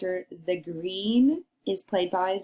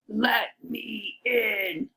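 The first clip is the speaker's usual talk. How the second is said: very slow growly-paced wolf; much slower than usual. Acted. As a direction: drag it out like the wolf at the door. Teacher voices the wolf.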